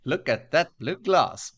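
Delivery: slow, loud mock admiration; admiring onlooker. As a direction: gawk at the glass, drawn out. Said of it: "I'm gonna go like".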